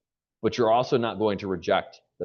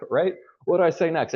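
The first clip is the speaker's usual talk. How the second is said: laughing; 8 semitones higher than usual. Real, not acted. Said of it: "laughs, echoing the imagined question".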